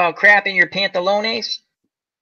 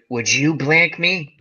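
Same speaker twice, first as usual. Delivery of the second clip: creepy Buffalo Bill. Retold or imitated. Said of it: "He was a creepy dude".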